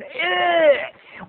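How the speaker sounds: high-pitched "ugh"; disgusted grunt. Real, not acted. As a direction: let out a high groan. Noise while fussing with nose.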